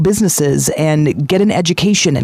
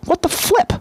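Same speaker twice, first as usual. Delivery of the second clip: mock surprise. George sees Clarence jump first.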